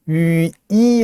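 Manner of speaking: 위 split into ü moving to 이; gliding diphthong. Shown as a demonstration. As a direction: let the lips spread from 위 into 이. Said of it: "입술의 모양이 변하는 이중모음이에요".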